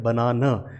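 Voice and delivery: बनाना ending in a short "uh"; pronunciation demo. Shown as a demonstration. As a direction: say बनाना as "buh-NAH-nuh". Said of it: "अ pronounce किया है".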